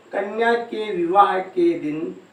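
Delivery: कन्या के विवाह के दिन slowly, word by word; measured कन्या के विवाह के दिन for note-takers; slow dictation. Shown as a demonstration. Repeats phrase slowly for dictation.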